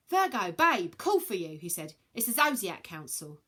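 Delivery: cheeky lad voice. Acted. Hermes voiced.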